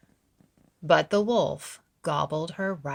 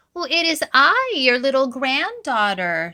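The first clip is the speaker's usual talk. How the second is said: put-on little girl voice; 9 semitones higher, 10 dB louder than usual. A narrator's reading. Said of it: "said Red Riding Hood".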